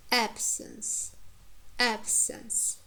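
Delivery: "absence" said AB-sence; careful repeated "absence" with weight up front; first-syllable stress. Shown as a demonstration. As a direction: hit AB in "absence", reduce the ending. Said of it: "first syllable stressed in the words like".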